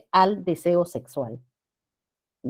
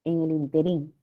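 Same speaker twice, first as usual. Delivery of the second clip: interín stressed on the last syllable; interín said as in-te-RÍN; common mispronunciation; 3 semitones lower, 3 dB quieter than usual. Retold or imitated. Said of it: "si se pronuncia así".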